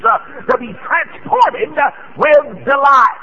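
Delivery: slow, high, lifted cry of delight; rising praise. Real, not acted. Preacher to church, rising into a joyful cry. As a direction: build the congregation toward shouting.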